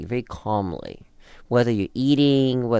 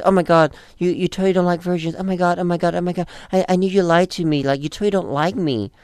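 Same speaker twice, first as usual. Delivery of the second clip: retelling a girlfriend panicking in bed, mock frantic; mock freaking out; 5 semitones higher, faster than usual. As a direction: rattle it off like she's losing it. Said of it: "she freaks out because she says".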